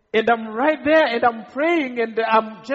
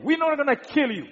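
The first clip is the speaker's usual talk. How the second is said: retold shout; 6 semitones higher than usual. Killer tells his captives their fate, mild retold shout. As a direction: imitate a shouted announcement. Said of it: "and then he shouts".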